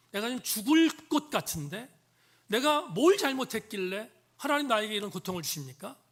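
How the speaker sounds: a preacher's acted complaint, gaining force; defiant protest. Psalmist confronting God over his suffering, defiant protest. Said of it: "하나님께 대듭니다".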